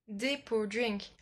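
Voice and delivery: slow, drawn-out attempt at an English accent; French speaker's careful English accent; mock-proud English accent. Shown as a demonstration. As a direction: show off your English accent on "Drink". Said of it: "mon magnifique accent anglais".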